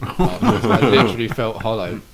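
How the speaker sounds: laughing. Real, not acted. Laughing at own story.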